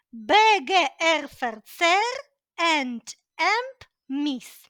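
rhythmic rote recitation, syllable by syllable; like a little rhyme. Shown as a demonstration. Teacher recites prefixes learned at school, as a rhythmic rhyme. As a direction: chant the prefixes in beats, stretching the last ones. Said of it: "вчимо ми їх як віршик".

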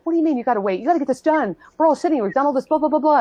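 high-pitched, imitated impatient griping; irritated. Irritated people complaining about having to wait, mock exasperation. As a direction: mimic an annoyed group, trailing into blah-blah. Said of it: "They were really irritated with me".

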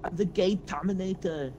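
a playful hint of a Terminator voice; mock Terminator. Mock Terminator impression in game.

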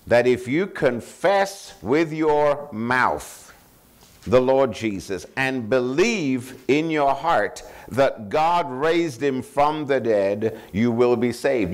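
slow, deliberate scripture reading. Acted. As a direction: read the verse slowly, weighing each word. Reads scripture slowly.

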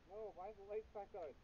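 high, loud outburst; agitated protest. Real, not acted. Player objecting as the game lights come back on, agitated. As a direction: call out in alarm, pitch jumping up.

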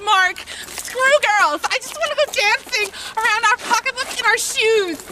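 hammed-up guy begging his buddy to go dancing; Dane Cook boy bit. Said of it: "I'm a boy doing the Dane Cook, the Dane Cook thing".

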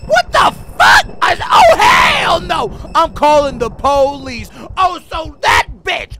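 very high, loud panicked shrieks; terrified scream. Real, not acted. Spotting the masked stalker, panicked screaming.

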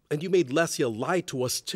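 a touch of anger, pushing the accusation; angry reproach. Acted. Husband scolds his wife for lying to family, angry.

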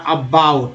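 अबाउट opened on बा; pronunciation demo. Shown as a demonstration. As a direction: say अबाउट carefully with a falling end. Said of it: "ओ का उच्चारण आ हो रहा".

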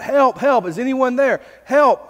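crying out for help. Retold or imitated. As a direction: call up for rescue, without real shouting. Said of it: "And so he cries out".

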